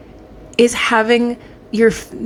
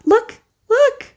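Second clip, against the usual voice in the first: thrilled squeal; 14 semitones higher, 4 dB louder than usual. Real, not acted. Thrilled at the shamrock charm.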